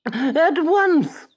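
high, very slow creature voice; slow snail. A narrator's reading. The snail answers Pinocchio from upstairs, very slow. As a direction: stretch every word lazily. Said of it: "said the snail".

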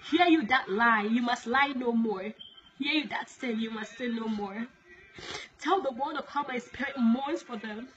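measured, declaimed warning from God; solemn prophecy. Acted. Preacher relays God's warning to the world, solemn prophecy. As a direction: deliver it as a solemn divine proclamation.

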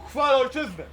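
loud ceremonial group reply; shouted in unison. Real, not acted. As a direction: call it out together firmly. Soldiers answer at oath ceremony.

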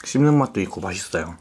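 chewing while talking; speaking between bites of burger; mouth full. Real, not acted. Seen 0: Lips closed around food, burger held at mouth, biting at end.

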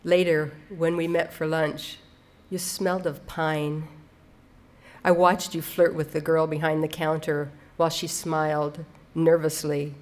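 measured recital with pauses between phrases; understated, deliberate poem delivery; poetry reading. Acted. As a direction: read the poem line by line, letting each image land. Reads poem aloud.

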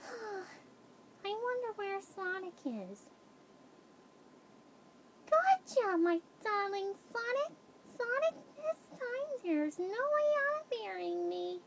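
high, excited cartoon girl voice; Amy Rose. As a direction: pitch it way up, gushing over a sweetheart. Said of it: "this is my voice demo reel of Amy Rose".

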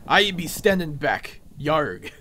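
lightly voiced pirate; a hint of buccaneer, ending on a growly yarg. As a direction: play along as a half-hearted pirate. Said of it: "a pirate impression".

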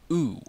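oo as a long vowel; long U sound. Shown as a demonstration. Teaching Latin long U, oo drawn out. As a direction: say oo like the vowel in tool. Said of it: "A long U".

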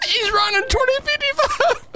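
high, slow callout with a yell; excited shout. Real, not acted. Suspect fleeing during chase.

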